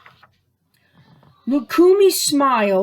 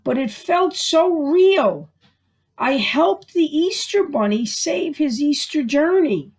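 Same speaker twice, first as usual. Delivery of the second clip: put-on higher, eager little girl telling her dream; excited child; 5 semitones higher than usual. Lukumi telling her parents about her dream, higher and eager. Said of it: "Lukumi said".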